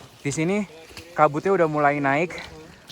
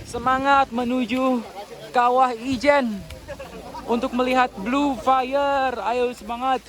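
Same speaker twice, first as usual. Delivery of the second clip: cheering herself on; 5 semitones higher, slower than usual. Real, not acted. Self-encouragement on the climb.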